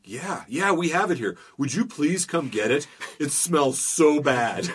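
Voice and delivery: half-laughing impression of a pleading clerk; post office clerk. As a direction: beg him to come get the smelly box. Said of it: "and they're like".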